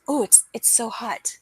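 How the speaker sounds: breathy whisper, acting overheated; whispered it's so hot. Showing viewers her old sign for hot, in a whisper. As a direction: sigh the words out as if melting in heat.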